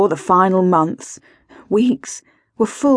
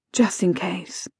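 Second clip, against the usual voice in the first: "Just in case" softly, under the breath; resigned mantra; 7 dB quieter than usual. A narrator's reading. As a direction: repeat "Just in case" quietly to oneself. Same words repeated as a mantra.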